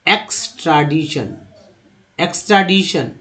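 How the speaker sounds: "एक्सट्राडिशन" as eks-tra-DI-shan; careful read-along "एक्सट्राडिशन"; model pronunciation. Shown as a demonstration. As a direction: say "एक्सट्राडिशन" in clear parts for learners. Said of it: "पढ़िए हमारे साथ".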